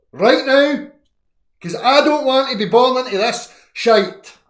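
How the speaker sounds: full-throated angry tirade; furious rant. Real, not acted. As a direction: yell it like you've had enough of the cold. Escalating rant about Scottish weather.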